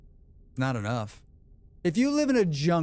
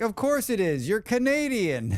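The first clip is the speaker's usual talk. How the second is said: mock sarcastic; 8 semitones higher than usual. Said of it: "I'm just like".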